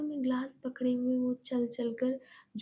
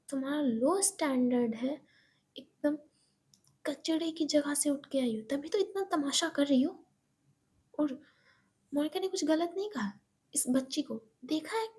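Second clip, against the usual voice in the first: snobbish taunt. Acted. Shweta insults Eva's background, sneering. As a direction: look down on her. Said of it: "Shweta कहती है".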